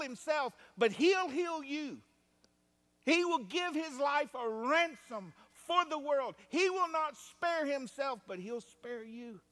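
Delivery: high, loud preacher's proclamation; full-force preaching. Real, not acted. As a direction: drive it home to the congregation, high and forceful.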